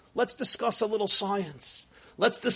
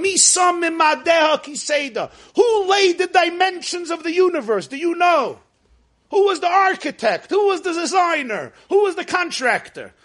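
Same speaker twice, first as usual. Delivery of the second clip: loud and high, hurling question after question; booming voice of God; 4 semitones higher, 3 dB louder than usual. Retold or imitated. Preacher as God challenging Job, booming. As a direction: thunder down each who like God. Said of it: "He says".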